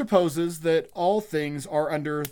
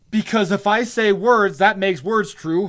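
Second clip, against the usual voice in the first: sarcastic mock reasoning; 4 semitones higher, 6 dB louder than usual. Mocking the lecturer's logic.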